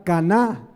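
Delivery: caná said ca-NÁ, stress landing on the last A; stress on the final A. Shown as a demonstration. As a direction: say caná with the accent on the final syllable, not like cana. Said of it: "pero con acento en la A".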